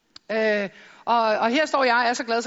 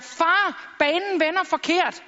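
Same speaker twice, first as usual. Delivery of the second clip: mock call to dad; 5 semitones higher, much slower than usual. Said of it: "så råber jeg".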